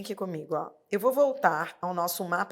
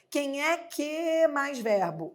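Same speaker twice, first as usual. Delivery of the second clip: slow model question; 5 semitones higher, slower than usual. Shown as a demonstration. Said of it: "É assim que eu pergunto".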